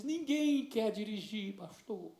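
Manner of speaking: slow, soft, close to tears; mild imitation of a crying teenager; tearful girl. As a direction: plead it slowly, holding back tears. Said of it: "E começou a chorar".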